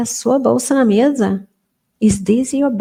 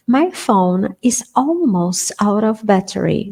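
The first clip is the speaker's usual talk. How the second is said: slow model sentence. Shown as a demonstration. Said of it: "Battery or battery".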